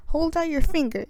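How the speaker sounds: put-on loud bossy order to the boy; a witch shouting at her captive; witch's shout. A narrator's reading. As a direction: bark it through the hatch. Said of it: "she shouted".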